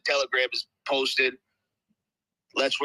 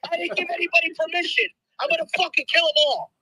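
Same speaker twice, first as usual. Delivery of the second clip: high, raspy, strained voice; croaky high rasp; Penguin-like voice; faster than usual. Real, not acted. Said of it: "why the fuck do you sound like the fucking Penguin".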